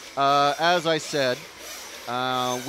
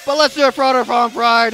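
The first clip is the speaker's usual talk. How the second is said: loud, higher announcer shout; monster truck ad; 6 semitones higher, 11 dB louder than usual. Acted. Big announcement call.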